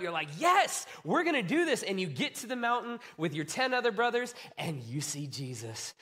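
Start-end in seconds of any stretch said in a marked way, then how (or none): 0.4-1.8 high, eager "yes"; pumped up. Acted. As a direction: disciple psyched to get going. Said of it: "you're all pumped up".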